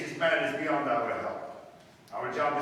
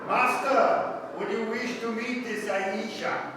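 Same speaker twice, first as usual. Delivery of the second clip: Arab guide disguise; 6 semitones higher, slower than usual. Acted. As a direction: play a fawning hired guide. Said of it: "adopted the disguise of an Arab guide".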